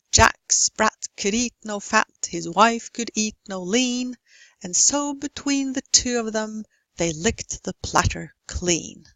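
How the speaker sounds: nursery rhyme read with a clear beat; rhythmic stress. Shown as a demonstration. Teacher reading a rhyme to show strong and weak beats. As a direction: stress the big words, swallow the small. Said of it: "made the non-stressed syllables and words smaller".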